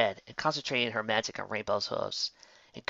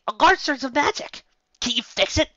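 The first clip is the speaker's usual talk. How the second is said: alarmed cry; 14 semitones higher, 7 dB louder than usual. A narrator's reading. Panic over the disrupted spell.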